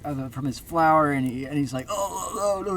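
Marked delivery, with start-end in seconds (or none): 1.9-2.8 high, wobbling "oh, oh, oh"; playful high yelps; clownish falling cry. Acted. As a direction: cry out as if taking a fake tumble. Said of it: "and falls on the ground".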